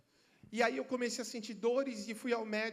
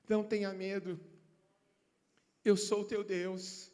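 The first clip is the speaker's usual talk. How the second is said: gentle voice of God; 5 semitones lower, slower than usual. Acted. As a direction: speak as God calming a scared child, slowly. God reassures the frightened believer.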